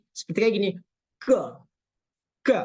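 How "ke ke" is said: ke with no strike against the palate; wrong kaf. Shown as a demonstration. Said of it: "salah juga tuh".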